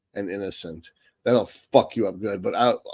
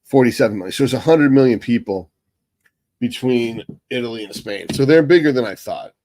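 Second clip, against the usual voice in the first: surprised realisation; 6 dB louder than usual. Real, not acted. Surprised at population figure.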